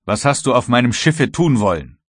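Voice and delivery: angry interrogation. Acted. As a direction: press the prisoner for an answer. Kapitän verhört den gefesselten Matrosen. (lautes, ärgerliches Verhör)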